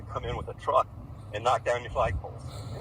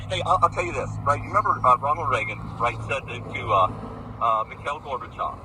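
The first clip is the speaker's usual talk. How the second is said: heated and loud; 8 dB louder than usual. Real, not acted. Heated argument with neighbour over flag.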